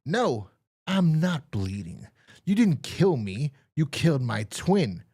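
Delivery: put-on slow, measured old-timer reveal; old man, slowly. The old man telling the killers about his twin, slow and measured. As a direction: drag out the reveal. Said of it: "old man reveals twin".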